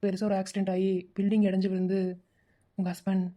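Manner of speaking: low, halting bad-news voice; grave, hesitant. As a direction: break terrible news carefully, with pauses. Caller breaks news of death.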